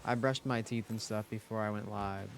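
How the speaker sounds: slight lisp from retainers; talking with a retainer in; lispy. Real, not acted. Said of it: "sorry if I sound, like, lispy today".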